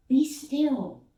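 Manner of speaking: Be still called loud and high, a command; commanding calm. Acted. Jesus ordering the waves, loud and high.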